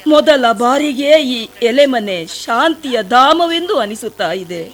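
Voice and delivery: a pleading, sorrowful plea to the sage; tearful pleading. Acted. Shabari pleads at the sage's feet, tearful. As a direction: beg the sage to open his eyes, close to tears.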